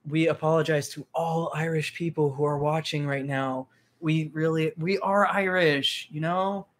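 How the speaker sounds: put-on Irish brogue; Irish accent. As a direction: speak with a hammy Irish lilt. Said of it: "my Irish accent".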